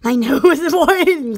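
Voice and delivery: laughing. Real, not acted. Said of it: "laughed so hard".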